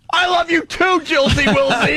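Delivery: put-on high, sing-song baby talk; mock lovey-dovey. Host mocking Anthony's pet name for Jill, high baby talk. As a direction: coo it like a smitten boyfriend. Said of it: "He, he writes".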